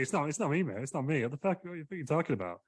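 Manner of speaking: lightly acted high-pitched denial; protesting Kim Jong-un.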